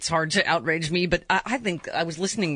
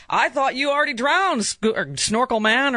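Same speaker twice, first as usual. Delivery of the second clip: mock woman's line; 6 semitones higher than usual. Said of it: "I know the dialogue".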